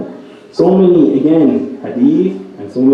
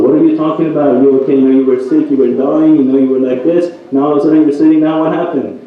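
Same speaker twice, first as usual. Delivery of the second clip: more puzzled; 2 semitones higher, faster than usual. Retold or imitated. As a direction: ask her in rising disbelief. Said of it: "even more puzzled".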